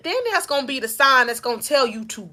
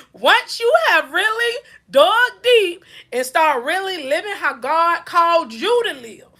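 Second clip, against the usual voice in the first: tearful; 4 semitones higher than usual. Real, not acted. Overcome while preaching.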